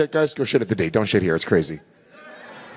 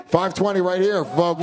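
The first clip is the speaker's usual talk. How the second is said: auctioneer calling bids; 3 semitones higher than usual. Pretend.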